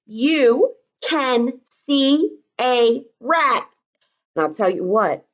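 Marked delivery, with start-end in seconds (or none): 0.1-3.7 slow dictation. Shown as a demonstration. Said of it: "I bet you I would be yelling it".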